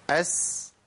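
أس with a briefly flowing hissed s; measured sin softness. Shown as a demonstration. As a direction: let the س of أس hiss, then stop. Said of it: "الرخاوة ما زادتش عن كده".

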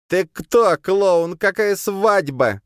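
put-on loud, high drunken yell; shouting. A narrator's reading. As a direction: yell at him, outraged. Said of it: "закричал в ответ Копейкин". (пьяный яростный крик)

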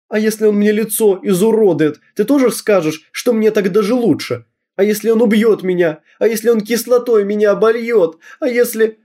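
hysterical pleading. Acted. Girl hysterical, pleading with mother. (дочь в истерике умоляет мать, высоко и громко)

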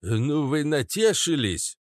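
put-on slow grumbling old-man voice; Papasha Katz. A narrator's reading. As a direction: creak it out in slow reproach. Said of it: "проскрипел папаша Кац".

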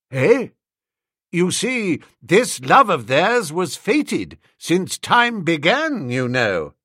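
a hint of an elderly lord, slow and lofty; old lord explaining fate, lightly voiced. A narrator's reading. Old Bittlesham lecturing Wooster on fate, a hint of an elderly lord.

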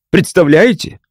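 mild sarcastic jab; mocking tone. A narrator's reading. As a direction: needle the doctor with a sneer. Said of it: "с издевательским тоном добавил".

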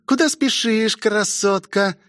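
высокий голос демонессы с угрозой; прорычи высоко, как демонесса; рычащая демонесса. A narrator's reading. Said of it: "прорычала демонесса". (рычание демонессы)

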